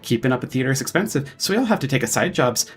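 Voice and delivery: lightly voiced flustered old dwarf, quick; stammering old dwarf. Old dwarf director eagerly greets the commander, flustered. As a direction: rattle on like an eager theater director.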